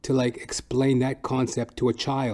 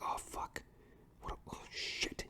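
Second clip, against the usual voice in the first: put-on hushed, breathy kid panic; whispered panic as a kid; panicked whisper; 20 dB quieter than usual. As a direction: whisper it so mom won't hear. Kid panics about getting dressed.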